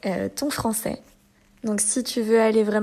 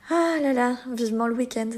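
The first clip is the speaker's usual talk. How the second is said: weary longing; 2 semitones higher than usual. Shown as a demonstration. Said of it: "pour dire qu'on est fatigué".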